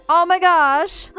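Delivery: high, loud, drawn-out exclamation; astonished. Real, not acted. Player finding the egg already hatched, astonished. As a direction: cry out slowly in amazement.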